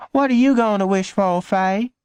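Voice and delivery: put-on high child voice; a little sister asking eagerly; high young girl; curious little girl. A narrator's reading.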